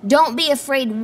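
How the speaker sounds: loud, firm command; emphatic declaration. Real, not acted. Preacher telling the congregation not to fear, loudly. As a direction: proclaim it boldly. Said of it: "you have a Savior who says".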